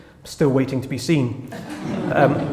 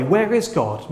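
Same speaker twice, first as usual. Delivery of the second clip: genuine, softer honest question; sincere question; 2 semitones higher, 3 dB quieter than usual. Retold or imitated. A seeker asking honestly, a sincere gentle question. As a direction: ask it because you truly want to know. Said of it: "asking in a more sincere way".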